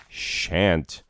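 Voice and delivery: "Shan't" spoken as one clear syllable, falling; shan't said clearly. Shown as a demonstration. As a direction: enunciate "Shan't" like a dictionary word. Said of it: "contraction of shall and not".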